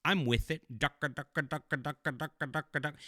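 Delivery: mock hip kid talk. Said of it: "they wanna appeal to the kids with modern language".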